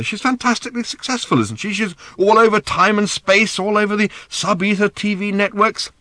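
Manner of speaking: high, urgent argument. A narrator's reading. Arthur arguing with Random, high. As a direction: argue her mother's case.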